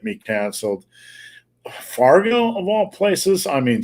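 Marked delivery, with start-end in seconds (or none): 1.8-3.5 much higher, disbelieving question; real disbelief, pitched right up; incredulous. Real, not acted. Host reacting to Fargo's mask rule, incredulous.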